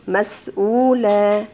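مسؤولة slow, the long oo stretched; drawn-out oo. Shown as a demonstration. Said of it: "الواو مد طبيعي".

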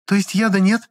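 put-on high, relieved young woman's voice, rising on яда; a girl letting out her worry in a high voice; relieved girl's question. A narrator's reading. Lizonka asking the pharmacist if there is no poison, high and relieved. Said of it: "облегчённо переспросила Лизонька".

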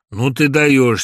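loud relieved exclamation; relieved exclaim. A narrator's reading. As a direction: let the tension out. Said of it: "с облегчением". (с облегчением, громко)

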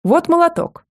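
match his loudness as a proud grandmother; high loud approving shout; loud praise. A narrator's reading. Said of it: "в тон ему ответила бабушка".

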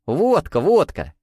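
high, eager repeated exclamation; joyful confirmation. A narrator's reading. Mikhail nods to the waiter, joyfully confirming. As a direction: confirm it gleefully, each word falling from high. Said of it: "радостно закивал".

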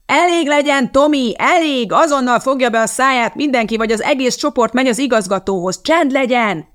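high, threatening teacher's shout; shouting over noise. A narrator's reading. Teacher outshouts the monkeying class, shouting threateningly. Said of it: "túl kiabálta a hangzavart".

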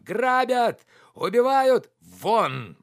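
very high, loud cries of alarm; outraged screaming. A narrator's reading. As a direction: scream as if being robbed and murdered. Slapped man crying robbery and murder. (истошный крик)

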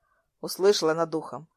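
plain reading voice

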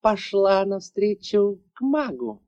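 high, mocking villainess voice; sarcastic taunt. A narrator's reading. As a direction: sneer out the question. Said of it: "услышав язвительный вопрос".

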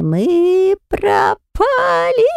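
very high, very slow frightened shriek; panicked squeal. A narrator's reading. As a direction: squeal it out in terror. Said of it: "заверещал снова мне в ухо Ферри".

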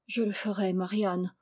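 soft, subdued submission; humble and sad. A narrator's reading. Lad agrees to make peace as his guardian asks, humbly sad. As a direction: give in quietly, with sadness. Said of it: "répondit Charles humblement et tristement".

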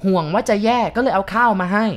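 put-on old man jeering through the hatch; mocking old man. A narrator's reading. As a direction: taunt her as a cruel old man. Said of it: "ชายแก่คนนั้นพูด".

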